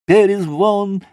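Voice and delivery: high, sing-out call to a dog. A narrator's reading. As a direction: call out the dog's name, pitched high. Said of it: "принялась щёлкать пальцами и звать".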